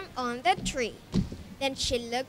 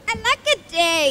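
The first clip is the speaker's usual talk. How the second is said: crying; 6 semitones higher, 7 dB louder, much faster than usual. Acted. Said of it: "And he cried".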